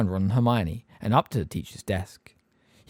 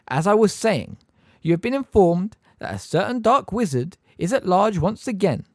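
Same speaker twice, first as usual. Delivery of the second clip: Umbridge; 9 semitones higher, 5 dB louder than usual. A narrator's reading. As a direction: spell it out with sugary menace. Umbridge resumes lecture.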